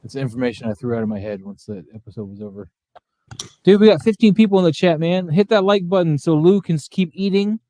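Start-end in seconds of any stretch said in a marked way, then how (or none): 3.6-7.6 loud, high, hyped-up call to chat; hyped streamer. Real, not acted. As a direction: pump up the chat.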